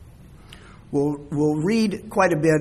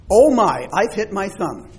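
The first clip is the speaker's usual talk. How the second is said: mock ouch; 3 semitones higher, 5 dB louder than usual. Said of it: "do you ever say".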